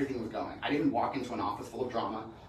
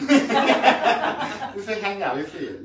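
very slow, loud, higher put-on accent through laughter; Hamudi's accent; 10 semitones higher, 13 dB louder, much slower than usual. Friend urging him to come, mimicked accent. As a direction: drag it out like the friend pleading. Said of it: "I like the accent".

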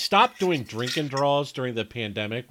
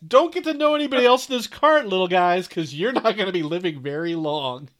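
mock menace; 6 semitones higher, 6 dB louder, faster than usual. Warns the beers in the cart.

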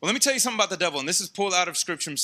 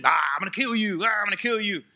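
hammed-up growled lion threat; mock intimidating roar. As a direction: imitate a menacing roar through the words. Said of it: "The roar is not intimidation".

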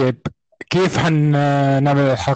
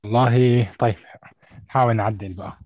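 faint, distant, thin-sounding voice; weak thin voice; 4 semitones lower than usual. Real, not acted. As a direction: speak weakly, as if far from the mic. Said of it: "صوتك ضعيف نوعًا ما".

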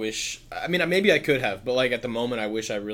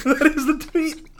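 much higher, louder echo of the tweet; mock Obama echo; 8 dB louder than usual. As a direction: parrot it back in a high put-on voice.

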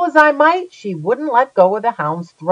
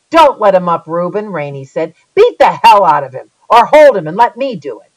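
egging on; 6 dB louder than usual. Acted. Rainey urging Reuben to beat narrator.

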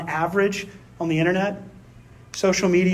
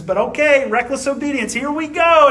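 higher-pitched, lightly acted going along; mock compliance; 6 semitones higher than usual. Worker obeying a bad order anyway, retold mock compliance. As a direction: give in with a higher, mock-willing lilt.

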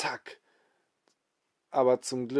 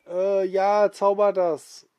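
cheeky dare; 8 semitones higher, 6 dB louder, slower than usual. Acted. Alex challenges Rummel.

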